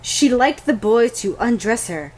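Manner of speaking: deliberate, measured passage reading; lightly dramatised book excerpt; dramatic reading. Acted. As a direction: read it out with a touch of drama. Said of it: "If I may dramatically read".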